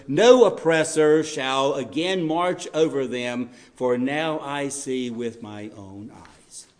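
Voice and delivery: slow, weighty reading of God's words; slow solemn proclamation; solemn scripture reading. Acted. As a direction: read it slowly, as God speaking. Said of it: "deals with it when it says".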